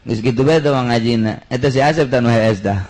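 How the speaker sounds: ordinary delivery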